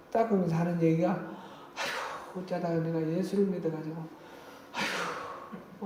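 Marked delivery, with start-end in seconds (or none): 1.1-5.8 soft, hurried grumble between long breathy sighs; imitated muttering. Grandmother grumbling to herself while mopping the floor, imitated sighing mutter. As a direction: sigh and mutter it to yourself, imitating. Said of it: "혼자 중얼중얼중얼 하는 걸".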